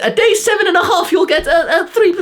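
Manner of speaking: squeaky ridiculing parody with a laugh in it; mocking parody. Ridiculing YouTuber timelines for viewers, very high and laughing.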